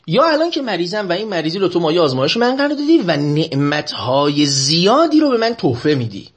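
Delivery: normal talking voice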